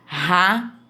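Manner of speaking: RATO split as RA, TO, with h-like strong R; strong initial R. Shown as a demonstration. Teacher showing pupils R at word start, strong R. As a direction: open RATO on a strong R, pause between syllables. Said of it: "é o som forte".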